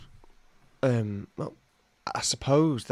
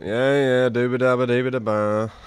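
mock German gibberish; 4 dB louder than usual. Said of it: "and you're like".

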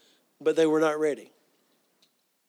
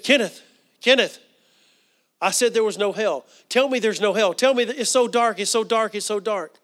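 raised, pleading cry, acted without sobs; retold crying out; 4 semitones higher, 4 dB louder than usual. Dying aunt pleading with Kenneth, retold crying out. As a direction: plead urgently, voicing the dying woman. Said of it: "she's crying".

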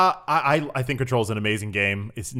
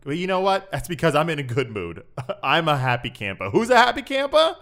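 sports host persona; 5 semitones higher, 4 dB louder than usual. Acted. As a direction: play a bubbly sports host character. Plays Hunter Trip Tanner persona.

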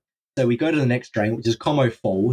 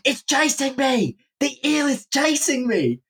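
high, drawn-out mock wail; imitated panicked screaming; 11 semitones higher, slower than usual. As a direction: cry out like a friend fleeing in panic. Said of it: "He starts screaming".

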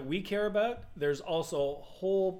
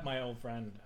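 low emperor voice; 6 semitones lower, 10 dB quieter, slower than usual. Retold or imitated. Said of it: "the emperor says".

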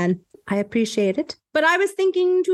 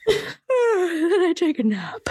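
slow breathy whisper, drifting off; sleepy whisper; 4 semitones higher, much slower than usual. Pretend. Cohost whispering the nap line of the song. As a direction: whisper it as if nodding off.

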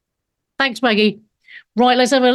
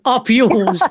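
imitated Aussie "Up yours"; Australian accent. Host echoes Australian caller's phrase, imitated Australian accent. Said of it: "When you say it in an Australian accent".

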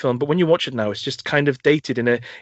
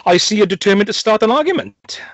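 higher put-on voice, sighing theatrically; weary sigh; 8 semitones higher, 4 dB louder than usual. Inmate sighing at the psychologist, mock weary. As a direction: sigh it out like a patient martyr. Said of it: "sighs and says".

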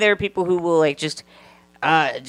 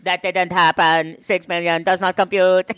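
stiff robot denial. Pretend. Robot Austrian bit.

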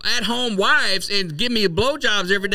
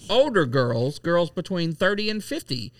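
1940s voice. Acted. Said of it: "That's my nineteen forties voice".

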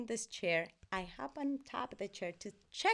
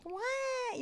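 high puzzled little "What?"; mock surprise. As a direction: play a confused toddler. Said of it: "And I'm like".

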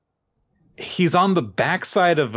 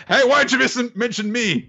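high, indignant whine at being left out; offended complaint; 10 semitones higher than usual. Retold or imitated. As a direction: act hurt that nobody named him. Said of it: "Sanji kicks someone and is like".

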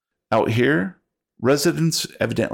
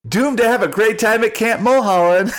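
stoner bus driver voice; 12 semitones higher, 5 dB louder than usual. Acted. Driver flips to cheerful.

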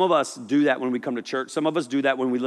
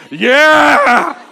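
higher and louder, fake eager agreement; mock eager yeah; 12 semitones higher, 13 dB louder than usual. Peter pretending to understand, loud fake eagerness. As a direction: shout yes like you totally get it.

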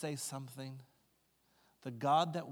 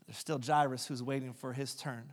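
ordinary delivery

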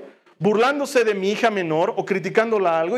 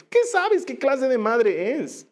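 indignant rebuttal; 4 semitones higher, slower than usual. Acted. Preacher's rebuttal.

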